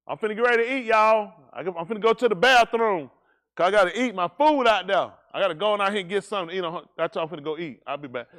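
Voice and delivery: loud, hammed-up boasting about going to eat; mock the show-off announcing his meal to everyone; mocking a showy man.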